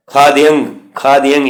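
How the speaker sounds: ਖਾਦਿਅੰ with a y glide before the nasal ending; half-y pronunciation. Shown as a demonstration. Teacher demonstrating the subscript letter, half-y pronunciation. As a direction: glide through a short y in ਖਾਦਿਅੰ. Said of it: "ਯਾ ਦੀ ਆਵਾਜ਼ ਕੱਢਣੀ ਹੈ ਇੱਥੇ".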